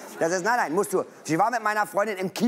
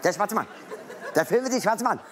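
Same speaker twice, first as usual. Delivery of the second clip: fast repeating; faster than usual. Retold or imitated. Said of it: "Wiederholen nur".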